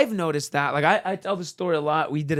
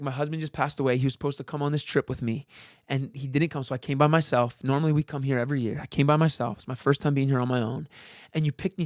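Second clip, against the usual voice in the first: tearful widow; 4 semitones lower than usual. Retold or imitated. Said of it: "she's like".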